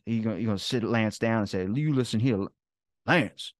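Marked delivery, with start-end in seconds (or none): 1.7-3.5 hammed-up movie-quote scolding; mock stern scolding. Retold Tropic Thunder confrontation.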